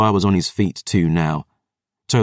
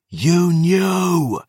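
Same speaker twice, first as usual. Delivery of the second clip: high, far-carrying roar of accusation; 11 semitones higher than usual. A narrator's reading. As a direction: roar it out in betrayal. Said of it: "Gabriel roared".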